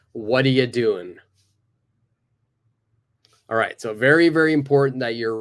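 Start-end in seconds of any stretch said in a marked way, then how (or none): 0.1-1.2 "What are you doing" reduced to "whaddya doin"; model for repeating. Shown as a demonstration. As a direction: say it clearly for the class to copy. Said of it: "One more time".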